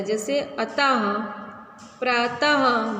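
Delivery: अतः and प्रातः ending in a short sharp ह breath; visarg demo. Shown as a demonstration. Teacher demonstrating visarg, a sudden ह at the end. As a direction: clip the final ः of प्रातः with a jerk of breath. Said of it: "जल्दी से बोल रहे हैं ना".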